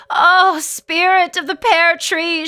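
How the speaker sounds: high, loud pleading invocation; fervent prayer. A narrator's reading. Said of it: "she prays".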